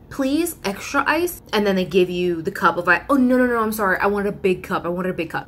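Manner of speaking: lightly voiced scattered customer, adding orders; a hint of an apologetic customer; flustered customer. Acting forgetful customer at window.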